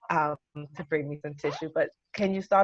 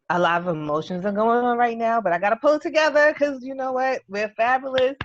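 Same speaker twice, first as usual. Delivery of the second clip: loud, tearful excitement, louder; overwhelmed and gushing, voice raised; real overwhelmed excitement, loud; emotional outburst; 3 semitones higher, 7 dB louder than usual. Real, not acted. Overwhelmed honoree starts her speech.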